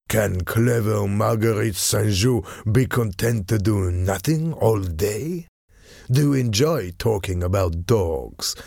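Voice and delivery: slow, lightly voiced sly envoy; cunning Frenchman. French envoy goading a lady about her dull marriage, slyly. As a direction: needle her slowly, drawing out the words.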